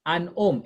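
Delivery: "An homme" with no H sound; silent H. Shown as a demonstration. Teacher models French article and noun, "An homme" with silent H. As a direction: leave the H off "An homme". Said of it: "H is silent".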